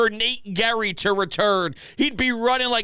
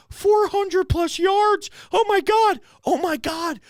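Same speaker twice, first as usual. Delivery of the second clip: appalled disbelief; 8 semitones higher than usual. Real, not acted. Host reacting to yards given up, appalled shouting. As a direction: gasp it out in horror.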